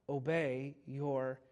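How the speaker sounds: slow, simple and plain; very simply. Retold or imitated. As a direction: lay it out slowly and simply. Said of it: "He says very simply".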